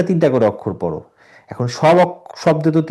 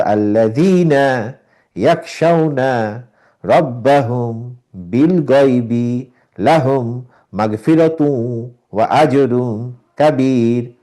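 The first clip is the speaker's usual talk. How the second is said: slow, word by word recitation; broken up reading; much slower than usual. Shown as a demonstration. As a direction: read each word apart, slowly. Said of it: "ভেঙে পড়ো, তাও ঠিক হবে".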